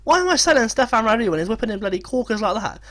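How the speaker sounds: high, loud disbelief at a brilliant play; excited amazement. Real, not acted. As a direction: marvel loudly, stretching the key words. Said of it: "I'm a little bit excited".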